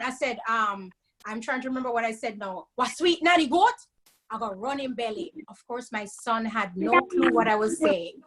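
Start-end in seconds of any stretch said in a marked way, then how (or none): 2.7-5.3 a mother scolding her little son in Jamaican Patois; mock upset mommy in Jamaican Patois; scolding Jamaican proverb. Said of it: "he knew mommy was upset".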